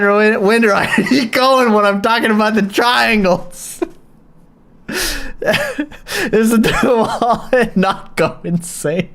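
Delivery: amused, words breaking into laughter; laughing. Real, not acted. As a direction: talk through leftover giggles. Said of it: "from laughing".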